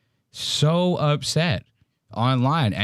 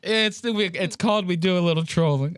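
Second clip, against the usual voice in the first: higher mock Trump, trailing off at the end; 4 semitones higher than usual. Host copying the clip's trailing Trump delivery. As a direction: let the catchphrase fade like Trump does. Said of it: "I love the way he trails off".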